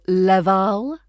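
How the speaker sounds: slow leval with a flat a in the second syllable; wrong vowel. Shown as a demonstration. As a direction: drag out leval, the mistaken way. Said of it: "Avoid turning level into".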